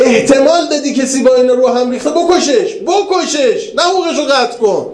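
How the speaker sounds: a hint of a heartless governor; ruthless ruler's orders. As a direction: voice the tyrant giving curt kill orders.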